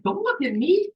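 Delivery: high, loud panicked plea; alarmed yelp. Retold or imitated. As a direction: freak out at the snake's stare. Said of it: "And I'm like".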